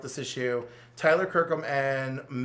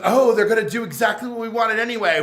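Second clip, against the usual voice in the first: mad scientist; 5 semitones higher, 8 dB louder than usual. Retold or imitated. Villain gloating at issue end.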